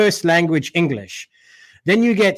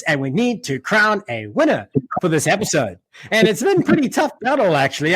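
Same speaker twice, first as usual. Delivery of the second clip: announcer read. Acted. Host welcoming rugby fans back after the sponsors, announcer style. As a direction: open the segment like a TV host.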